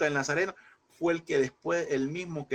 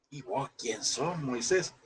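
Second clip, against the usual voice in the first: scornful challenge; 2 semitones lower, slower than usual. Retold or imitated. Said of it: "Israelites rejecting Moses".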